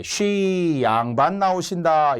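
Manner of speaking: stretched-out ceremonial proclamation; lordly announcement. Acted. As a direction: announce the nobleman with dignity. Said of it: "이런 양반의 위엄이라고 해요".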